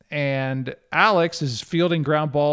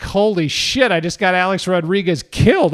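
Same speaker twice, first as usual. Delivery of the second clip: retold panic; 3 semitones higher, 5 dB louder than usual. Panic after the injury.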